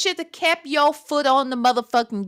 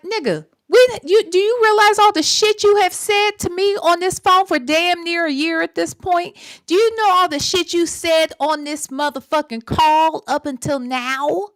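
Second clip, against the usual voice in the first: retold confrontation; 4 semitones higher than usual. Streamer voicing what she'd tell the man on the phone, raised and scolding. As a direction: call him out hard on his lies. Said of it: "I would have been like".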